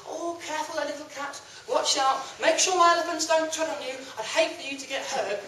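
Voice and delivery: soft, gentle warning; kindly king. Acted. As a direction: lean down and speak softly, kindly. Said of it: "very kindly leant down and said".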